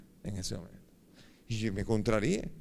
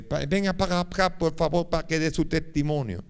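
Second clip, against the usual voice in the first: louder, higher mock French accent; 5 semitones higher, 4 dB louder than usual. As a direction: imitate a priest's French-accented Spanish. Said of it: "con su acento francés".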